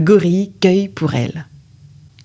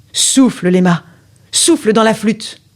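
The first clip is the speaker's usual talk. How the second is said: Mentor's voice. Acted. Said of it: "à la voix de Mentor".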